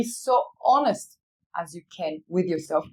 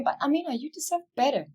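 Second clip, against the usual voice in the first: higher-pitched, urging yourself on; retold self-encouragement; self pep talk; 6 semitones higher, faster than usual. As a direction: imitate an inner voice coaching you. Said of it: "told me".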